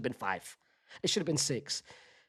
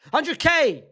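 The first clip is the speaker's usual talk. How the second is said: loud, thrilled cheer; excited shout; 4 semitones higher, 5 dB louder than usual. Real, not acted. YouTuber dreaming of hundred K subscribers, excited cheer. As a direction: cheer the milestone out.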